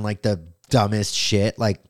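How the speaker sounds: usual speaking voice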